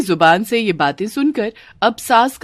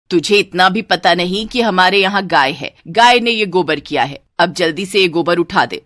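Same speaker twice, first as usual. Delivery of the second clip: scold, then give an order; scolding mother-in-law; 3 dB louder than usual. Acted. Mother-in-law ordering the bride to clear dung, scolding.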